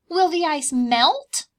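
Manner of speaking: worried little cub, high and slow. Acted. Bear cubs worrying to Mama, high slow voice. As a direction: ask it slowly like a small cub.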